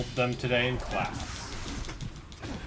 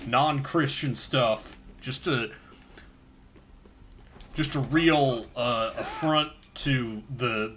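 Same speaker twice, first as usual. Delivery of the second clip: interviewee voice. Acted. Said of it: "now you're also the person they're interviewing?".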